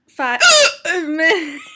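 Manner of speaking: hiccup cutting the word in two; slow words broken by hiccups. Real, not acted. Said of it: "I can't stop hiccuping right now".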